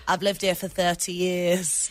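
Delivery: slow, lightly done Yorkshire voice; a hint of a Yorkshire accent. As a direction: imitate a northern lady, slowly. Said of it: "And she still had that accent".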